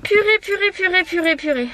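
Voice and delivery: high, fading disgusted repeat. Real, not acted. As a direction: groan it out in disgust. Disgusted by animal leg.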